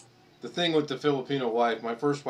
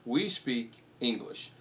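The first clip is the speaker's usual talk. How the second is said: slow, deliberate, hammed-up scolding; mock stern correction to his wife; slow mock lecture; slower than usual. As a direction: spell it out slowly like a stern patriot. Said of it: "I go".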